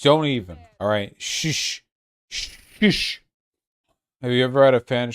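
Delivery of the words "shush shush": unvoiced hushing; whispered shush. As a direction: hush them in a whisper. Hushing the chat after threats.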